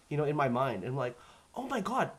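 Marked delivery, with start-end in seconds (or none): 1.5-2.1 high-pitched retold astonishment, breaking into a laugh; astonished realization. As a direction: blurt it higher, stretching the last words. Retold realization of own accent.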